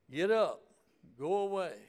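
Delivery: loud, high cry of command; commanding shout. Acted. Preacher voicing God's command.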